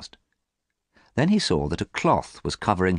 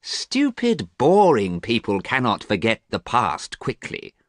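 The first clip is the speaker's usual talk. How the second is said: angry; 5 semitones higher, 3 dB louder, slower than usual. Acted. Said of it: "answered Dorian angrily".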